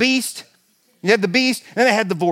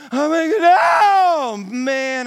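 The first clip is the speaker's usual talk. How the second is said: panicked cry; 7 semitones higher, much slower than usual. Retold or imitated. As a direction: yell out in roller coaster panic. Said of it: "I go".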